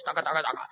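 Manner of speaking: low, rhythmic keyboard chatter; typing noise. Retold or imitated. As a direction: quietly rattle off keys clacking. Imitates typing while searching online. (tecleo imitado con la boca)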